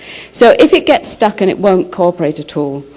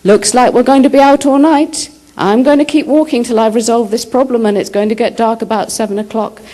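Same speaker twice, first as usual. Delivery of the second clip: higher, louder, calling out to the dog so the unconscious hears; loud announcement to the dog; 5 semitones higher than usual. Retold or imitated. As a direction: announce it loudly for a listener nearby. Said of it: "I say very loudly to the dog".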